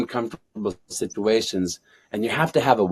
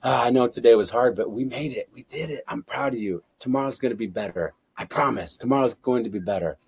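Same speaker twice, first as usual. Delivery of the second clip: quiet, gentle bedtime reassurance to yourself; soft soul talk. Shown as a demonstration. Speaker showing bedtime soul talk, soft and tender. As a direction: soothe yourself before sleep. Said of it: "soul talk, talk to your soul".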